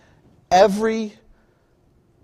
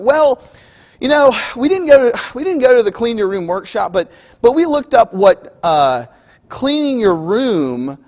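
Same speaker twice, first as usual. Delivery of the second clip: a hint of a kid talking his way out; stalling kid; 3 dB louder than usual. Kid excuses to parent.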